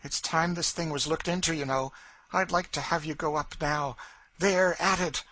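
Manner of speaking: lightly voiced taunting woman; goading Cassie. A narrator's reading. Cassie urges Legree up to the garret, goading.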